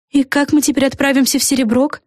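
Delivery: lightly voiced fairy, high; a hint of a chirpy fairy. A narrator's reading. Fluffanora to the girls, lightly voiced fairy.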